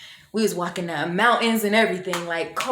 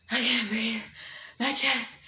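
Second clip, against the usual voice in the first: acted gasping plea, raised pitch; retold breathless panic; 3 semitones higher, 4 dB quieter, slower than usual. Girl grabs her friend mid panic attack, mock breathless panic. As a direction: struggle to get the words out.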